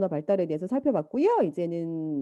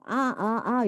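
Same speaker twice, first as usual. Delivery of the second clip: put-on baby sounds; much slower than usual. Shown as a demonstration. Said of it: "이런 소리를 내면".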